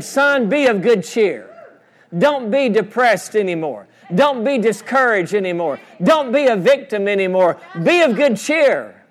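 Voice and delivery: high, emphatic preacher's exhortation; rousing encouragement. Acted. Preacher voicing Jesus to the paralyzed man, rousing encouragement.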